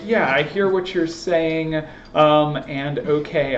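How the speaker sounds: slow, drawn-out hesitant yes; reluctant agreement. Retold or imitated. Lecturer voices a doubtful colleague, slow and hesitant. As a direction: hold back, not convinced.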